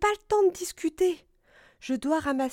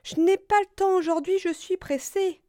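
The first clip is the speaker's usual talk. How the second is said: high, loud hurried exclamation; Écureuil; 9 semitones higher, 5 dB louder than usual. A narrator's reading. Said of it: "s'exclama Écureuil". (exclamation aiguë d'écureuil pressé)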